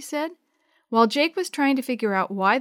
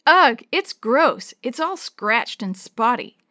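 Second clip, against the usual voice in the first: grossed out; 3 semitones higher, 5 dB louder, slower than usual. Acted. A kid seeing the scratched old bus, disgusted. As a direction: recoil loudly, then drag out the complaint.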